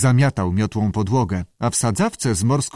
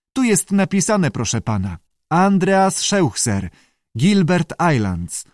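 squawky salamander; 7 semitones higher than usual. A narrator's reading. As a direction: answer politely in a high squawk. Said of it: "zaskrzeczała". (wysoki, skrzekliwy głos salamandry)

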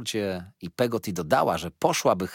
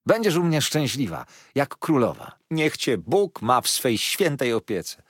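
joyful exclaiming; 5 semitones higher, 4 dB louder than usual. A narrator's reading. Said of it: "wołała Peggotty".

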